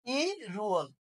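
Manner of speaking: ইরুয়াল with a linking R; linked pronunciation. Shown as a demonstration. Teacher repeats the answer for students, ইরুয়াল linked with R. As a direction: say ইরুয়াল as one joined word. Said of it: "কি উচ্চারণ হবে?".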